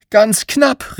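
high, quick call of relief; boy calling out, high and shaken; breathless relief. A narrator's reading. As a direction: gasp it out, just made it. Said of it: "rief Alfie".

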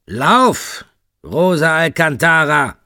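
hissed command. Acted. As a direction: spit it at her like a predator. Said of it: "fauchte er".

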